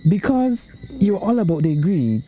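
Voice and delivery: wag a finger with a chanting moral; mock solemn warning. Rhyming mock sermon.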